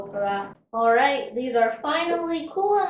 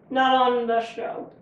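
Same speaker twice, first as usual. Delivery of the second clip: mouth full; 4 dB louder than usual. Real, not acted. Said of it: "Are you still chewing?".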